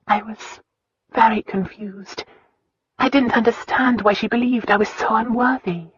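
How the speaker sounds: put-on a hurt girl finally opening up; Christina's voice.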